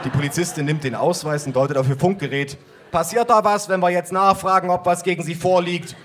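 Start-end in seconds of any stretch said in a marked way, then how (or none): 2.9-6.0 policewoman voice. Acted. Female cop voiced higher.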